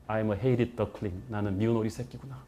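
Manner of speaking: very slow, soft lament; despairing. Retold or imitated. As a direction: read it like a suicide note. Student's suicide note, despair.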